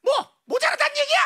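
stammering, high-pitched disbelief; sputter, then demand an explanation; flustered mother. Acted. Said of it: "그분은 또 당황했죠".

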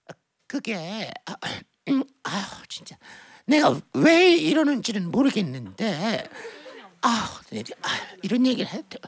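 low, halting sighs and pauses; hesitant mother. Acted. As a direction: struggle awkwardly towards a confession. Mother hesitantly confesses on phone.

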